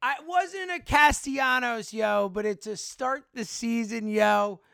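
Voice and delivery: hoarse, worn-out voice. Real, not acted. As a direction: talk through a voice that's gone. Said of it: "I have no voice".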